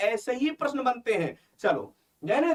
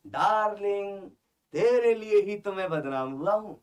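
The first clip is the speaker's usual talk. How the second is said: filmy lover line; 3 semitones lower, slower than usual. Acted. Teacher acts a lover's line.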